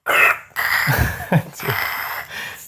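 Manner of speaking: breathy radio static hiss; walkie-talkie impression. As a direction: make a crackly walkie-talkie noise. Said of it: "She's the best walkie-talkie impression".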